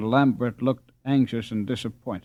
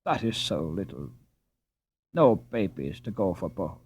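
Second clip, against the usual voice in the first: put-on Dutch accent; 6 semitones lower, 4 dB quieter than usual. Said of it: "retorted Jacob".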